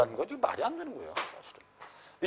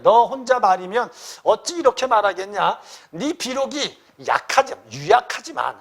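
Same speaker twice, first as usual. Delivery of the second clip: raised, high acted rebuke; great anger; 3 semitones higher, 5 dB louder than usual. Uncle rebuking his nephew, angry. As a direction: scold the child in a raised voice. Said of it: "위진이 크게 놓아여 말하기를".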